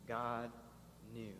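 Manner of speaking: whispered-down repeat; quiet repeat. Shown as a demonstration. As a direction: drop the voice for the echo. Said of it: "the last two words of chapter two".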